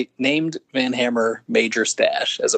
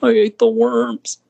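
much higher and louder, slow and drawn out; high, slow mock Foley line; Foley impression; 10 semitones higher, 5 dB louder, slower than usual. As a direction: squeak it out slowly like a goofy wrestler. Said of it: "talking like Foley".

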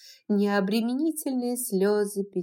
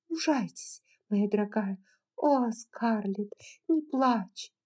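comforting. Acted. Melanie comforts both.

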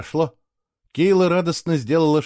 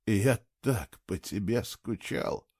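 softer, slow murmur into her ear; man whispering to his beloved, soft and slow; whispered; 3 semitones lower, 7 dB quieter, slower than usual. A narrator's reading. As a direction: breathe it close to her ear, slowly. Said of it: "прошептал он ей на ухо".

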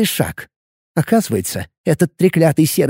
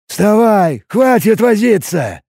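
slower, cold hissed order; 4 semitones higher, slower than usual. A narrator's reading. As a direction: hiss it from behind his back. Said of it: "прошипел".

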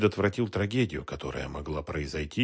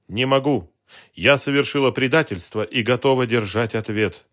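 louder, higher, firm; firm refusal; 4 semitones higher, 7 dB louder than usual. A narrator's reading. Woman refusing the detective, firm raised refusal. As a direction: refuse with grim resolve.

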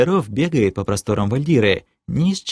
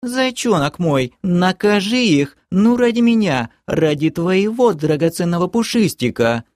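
put-on coaxing girlfriend; 9 semitones higher than usual. A narrator's reading. Girlfriend urging her knight to punish them, high wheedle. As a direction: sweet-talk him in a much higher voice.

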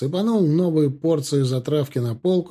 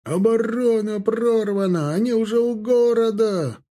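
cry of alarm; 8 semitones higher than usual. A narrator's reading. Soldiers passing word between companies, high alarmed cry. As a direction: spread the bad news in a raised cry. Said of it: "неслось от роты к роте".

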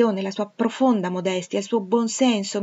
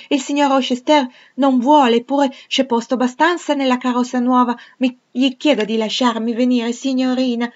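put-on high, loud child begging; a small girl pleading to come along; excited little girl; 6 semitones higher, 9 dB louder than usual. Adele begging the governess to go to Millcote, high and excited. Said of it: "esclamò".

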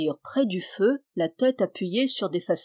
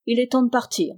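a bit louder call; 4 semitones higher, 3 dB louder, faster than usual. Acted. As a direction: urge them up. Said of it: "cria-t-il".

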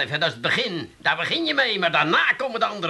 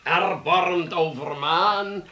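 slow, drawn-out theatrical recitation; declaimed verse rehearsal; slower than usual. Pretend. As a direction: intone each word grandly, stretching the vowels.

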